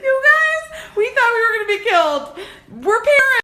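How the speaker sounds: high, fast retelling; high-pitched excited babble; excited rush. Real, not acted. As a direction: gush it out breathlessly.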